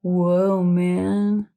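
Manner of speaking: drawn-out mock amazement; imitating a dazed owl. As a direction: say it long and spaced out, as a joke. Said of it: "He kinda looks like".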